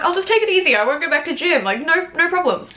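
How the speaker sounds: high, eager pleading to be let home. Retold or imitated.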